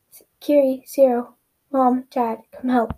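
loud, urgent call for help. Acted. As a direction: shout the names for help. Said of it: "Mina cried".

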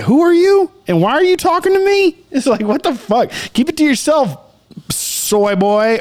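high, exasperated mock comeback; indignant retort. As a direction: tell off a nosy critic, hammed up. Retorting to unasked-for wrestling critics.

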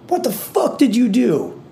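high, mock-furious mother; mom's angry outburst. Mom bursting into the guest room, a mock-furious high demand. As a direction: yell it like a panicked mom. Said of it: "and she's like".

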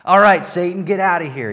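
loud, triumphant dismissal of Satan; bold defiance. Pretend. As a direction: throw him out with a laugh, fired up. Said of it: "we're like".

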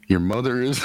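trying not to laugh. Real, not acted. Poet reading own rude rhyme to the group, trying not to laugh. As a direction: start the rhyme and break into real laughter. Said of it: "You can't read it without laughing".

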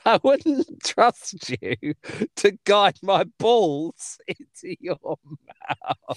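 slow, drawn-out quote; quoting the punchline slowly, amused; slow relish. Retold or imitated. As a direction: savour every word of the line. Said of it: "How is that a joke?".

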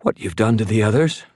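high, thin, frightened woman's voice; thready. Acted. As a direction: answer fearfully in a thready voice. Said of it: "her voice thready".

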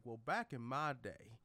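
put-on country old man. Old Thor reliving glory days, country-accented. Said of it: "that old man ... relive the glory days".

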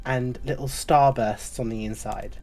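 sweet motherly tavern keeper; barmaid Flo. Acted. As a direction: purr it like a doting innkeeper.

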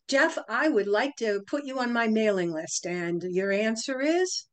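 measured request, slowing into the closing question; demonstrated sales pitch. Shown as a demonstration. Psychologist asking Jeff to join her list, deliberate demo pitch. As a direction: deliver it deliberately, drawing out "your answer is". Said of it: "Listen for the pauses and the inflection".

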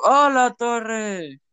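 high, shocked outburst; startled yelp. Real, not acted. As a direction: blurt it out in shock. Reacting live to the video.

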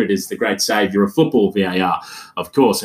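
dry, low-pitched mock praise; sarcastic. Real, not acted. Host mocking the supposed saviour of football, sarcastic. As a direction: say it with deadpan sarcasm. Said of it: "pick up the sarcasm in my voice".

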